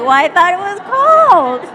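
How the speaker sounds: loud, high, laughing deadpan comeback; dad's laughing retort. Retold or imitated. Dad answers the burned drunk man with a laughing jab. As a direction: deliver the punchline with a laugh. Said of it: "he's like".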